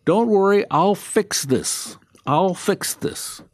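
slow, reassuring promise; calm the family down, slowly and surely; a lightly voiced reassuring Jesus; mock reassurance. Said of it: "He should say".

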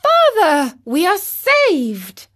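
high, loud and joyful; joyful cry. A narrator's reading. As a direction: cry out with relief at being saved. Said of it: "cried the marionette".

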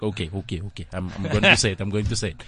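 imitated Finnish host psyching himself up; Finnish MC's accent. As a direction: reassure yourself in a put-on Finnish accent. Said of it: "and he's like".

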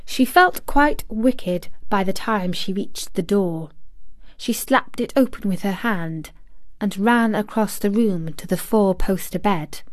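ordinary delivery, nothing marked

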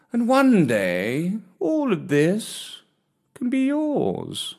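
slow, courtly purring cat voice; a kindly old cat proposing gently; old gentleman cat. Acted. Comrade Gatsby voiced in story.

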